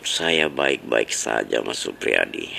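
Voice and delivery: very low, slow, drawn-out voice; mock-solemn. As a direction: answer in a deep, ponderous put-on voice. Host mock-solemnly answers slow caller. (suara berat dibuat-buat)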